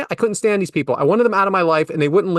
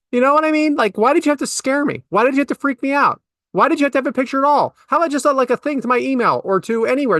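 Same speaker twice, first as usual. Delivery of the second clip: exasperated rant; 8 semitones higher than usual. Real, not acted. Ranting at the app.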